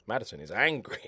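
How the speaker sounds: a mock-conspiratorial whisper to the viewers; playful whisper. Real, not acted. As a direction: breathe it as a secret. Playful aside about a player.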